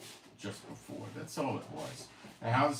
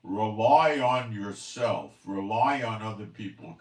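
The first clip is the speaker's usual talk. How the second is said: mocking slogan; 10 dB louder than usual. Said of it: "this is playing to people".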